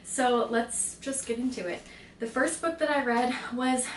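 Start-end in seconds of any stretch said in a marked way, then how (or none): 2.2-3.9 breathless start; winded, gasping a little; out of breath. Real, not acted. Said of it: "I'm out of breath".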